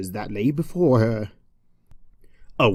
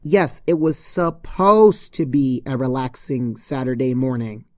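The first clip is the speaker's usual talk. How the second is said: impatient interruption; 4 dB louder than usual. Acted. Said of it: "said Twilight".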